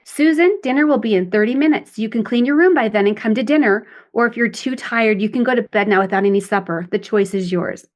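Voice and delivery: level, matter-of-fact mother; a calm mom setting limits; calm adult. Shown as a demonstration. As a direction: lay out the choice without emotion. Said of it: "the mom replies in her adult".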